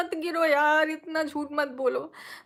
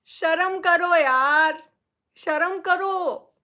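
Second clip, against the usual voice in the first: shaming rebuke; 5 dB louder, much slower than usual. Real, not acted. Scolding the rumour spreaders.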